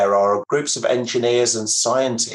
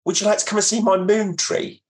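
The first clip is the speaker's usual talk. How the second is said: voicing a neighbor; 11 semitones higher than usual. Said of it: "And he came to me one day and he said".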